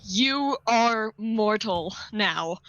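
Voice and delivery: jackal voice. Acted. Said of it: "jackal's voice".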